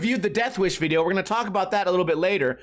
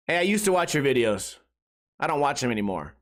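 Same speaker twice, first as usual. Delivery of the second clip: flat deadpan viewer; 8 semitones lower than usual. Retold or imitated. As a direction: say it stone-faced, no emotion. Flat honest former viewer.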